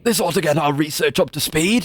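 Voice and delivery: a hint of a grumpy old man; lightly voiced old scholar. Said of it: "I gotta find my old man voice again".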